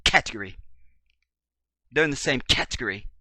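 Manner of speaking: playful put-on British accent; category squeezed short in mock British; fake British accent. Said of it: "throw my fake British accent".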